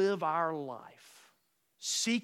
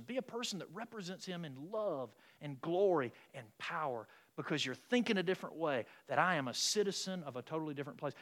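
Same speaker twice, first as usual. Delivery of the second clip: gentle advice to Levi; 4 dB quieter than usual. Retold or imitated. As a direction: quietly counsel a young man. Telling Levi at the table.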